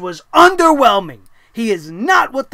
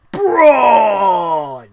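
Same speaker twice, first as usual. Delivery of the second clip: mock announcer yell; 3 semitones lower, 4 dB louder than usual. Mocking the surprise entrant reveal.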